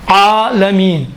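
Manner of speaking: عالمین with the ain pressed from mid-throat. Shown as a demonstration. Teacher showing ain's sound from the throat, deliberate. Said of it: "دیکھیں، عالم".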